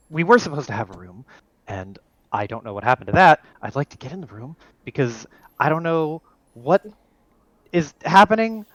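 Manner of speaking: a rattled man denying the words; flustered Marcus. Acted. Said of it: "Marcus turns to you and just goes".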